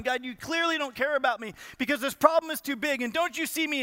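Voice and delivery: a touch of self-pitying protest; victimized complaint. Acted. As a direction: play the wronged believer accusing God. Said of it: "stuck in our own victimization".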